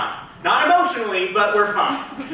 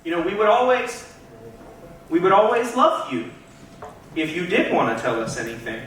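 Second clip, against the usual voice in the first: coaxing parents. Acted. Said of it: "and they go".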